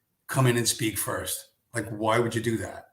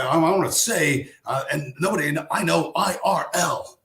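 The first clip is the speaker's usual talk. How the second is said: mock indignant caller; 3 semitones higher, 4 dB louder than usual. Angry caller retold.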